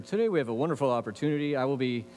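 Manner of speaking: mock-stately TV host introduction; lightly voiced, composed interviewer announcing an exclusive. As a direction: play the put-together host, lightly. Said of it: "the guy is all stately and put together".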